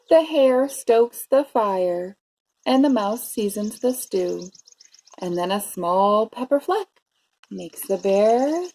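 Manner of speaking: measured read-aloud with drawn-out key words; story narration. A narrator's reading. Teacher reading a bear story to preschoolers, expressive narration. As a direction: savour the rhymes for young listeners. Reads picture book to children.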